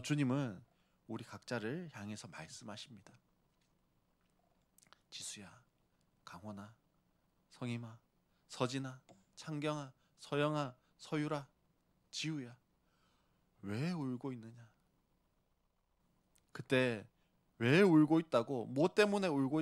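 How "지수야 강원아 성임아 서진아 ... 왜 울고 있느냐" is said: gentle calling. Retold or imitated. The Lord calls congregants by name.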